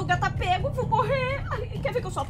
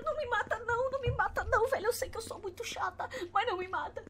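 screaming in fear; 5 semitones higher, 8 dB quieter than usual. Real, not acted. Begging not to be killed.

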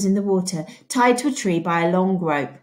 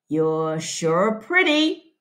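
very slow leering sheriff voice; a hint of a drunk leering sheriff; 3 semitones lower, much slower than usual. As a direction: draw it out slow like a drunk lawman.

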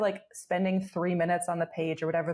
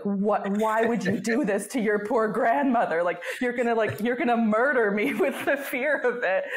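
raised, louder voice of a scolding grandmother; mock berating grandmother; 4 semitones higher, 4 dB louder than usual. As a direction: act out her melodramatic telling-off, laughing a little. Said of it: "berating me".

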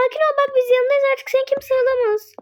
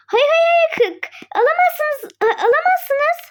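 protest; 4 semitones higher than usual. Acted. Friends block the mother.

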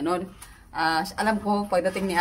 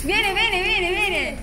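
calling sweetly; 11 semitones higher than usual. Real, not acted. Calling child over.

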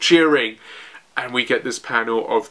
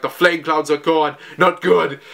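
higher-pitched, alarmed mock yell; mock scream; 3 semitones higher than usual. Narrator voicing Yamato as the flame clouds vanish, mock scream. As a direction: act out a panicked cry without full volume. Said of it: "Yamato's screaming".

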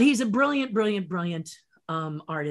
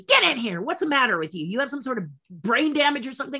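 raised, indignant mock scolding; upset scolding; 4 semitones higher than usual. Actress confronts the cheery trailer door slammer, mock angry scolding. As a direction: summon her sharply, then scold. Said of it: "she got really upset".

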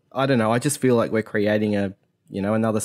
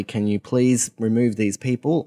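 asking politely and gently; a courteous please; polite request. Retold or imitated. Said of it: "said politely".

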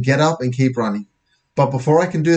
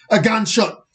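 alarmed; 9 semitones higher than usual. Acted. Narrator reacts to gunshot.

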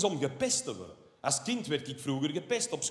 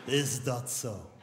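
slow, low mock surprise with a laugh; sarcastic; 5 semitones lower, 5 dB quieter, slower than usual. Answering the columnist, slow and sarcastic. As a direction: drawl it out in disbelief. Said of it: "En dan denk ik".

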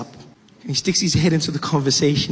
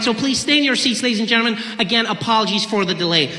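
higher, polished cabin PA voice; flight attendant announcement; 8 semitones higher than usual. Retold or imitated. Air hostess addressing the seated passengers, PA announcement voice. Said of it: "she goes".

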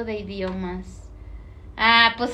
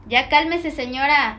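a light mock of a bossy viewer; 4 dB louder than usual. Streamer mimicking a chat comment, lightly mocking. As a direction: tease the viewer by saying it their way. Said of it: "¿Cómo lo arremedas?".

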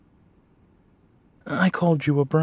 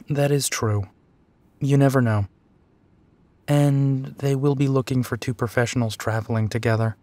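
ordinary talk, nothing marked

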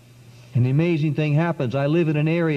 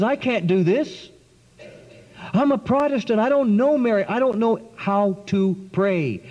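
panicked protest; 4 semitones higher than usual. Retold or imitated.

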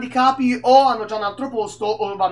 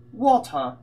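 "Water" as WAW-tuh in put-on British; lightly put-on British "Water"; mock British accent. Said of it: "Sono britannici di merda".

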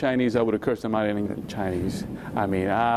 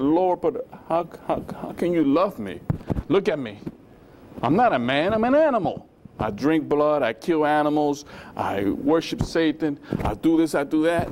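anguished plea; 4 semitones higher than usual. Retold or imitated. Former addict crying out to the Lord, pleading. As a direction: beg desperately, voice climbing.

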